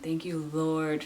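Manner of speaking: slow unvoiced whisper; whispered prayer. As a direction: breathe a thankful prayer.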